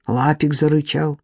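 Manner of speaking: usual speaking voice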